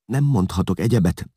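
high, pleading whine; whimpered excuse under pressure; whining. A narrator's reading. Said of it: "nyavajgott Vigilász".

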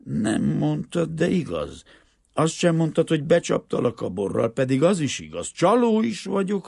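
high, loud, impassioned peasant pleading; indignant poor peasant father. A narrator's reading. Poor Greek father refusing a rich man's money for his daughter, indignant. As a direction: protest with wounded pride, voice leaping up.

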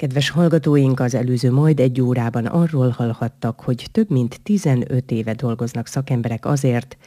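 measured, formal radio link; radio presenter announcement. Acted. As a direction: address the listeners as a programme host. Host addresses radio listeners formally. (rádiós műsorvezetői felkonferálás)

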